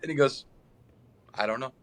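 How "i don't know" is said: lightly imitated player, low-pitched; Jair. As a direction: drop low for a mock interview answer. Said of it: "That's how he sounded".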